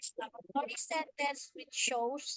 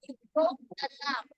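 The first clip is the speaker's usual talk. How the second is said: louder and fast, stress on lamp; mad; 5 dB louder, faster than usual. Shown as a demonstration. Teacher demos an angry exclamation, stressing lamp. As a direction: scold someone for breaking the lamp. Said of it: "being mad".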